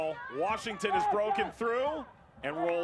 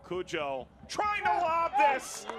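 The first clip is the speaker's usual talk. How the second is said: excited call; 5 semitones higher, slower than usual. Real, not acted. Live chance called out.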